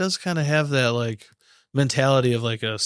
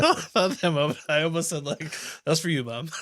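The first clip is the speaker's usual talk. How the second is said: laughing while talking; 3 semitones higher than usual. Real, not acted. Laughing while retelling an urge.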